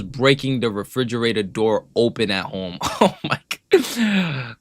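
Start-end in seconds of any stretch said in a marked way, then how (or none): 2.8-4.6 laughing. Real, not acted. Laughing at the clip.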